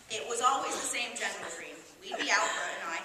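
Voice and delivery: lightly voiced reluctant old lady; an old New Yorker confiding, mildly indignant; elderly woman.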